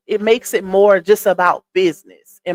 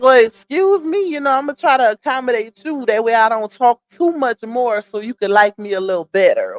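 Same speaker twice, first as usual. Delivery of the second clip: sassy comeback; 2 semitones higher than usual. Retold or imitated. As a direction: feign offence with a sassy "excuse me". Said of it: "I was like".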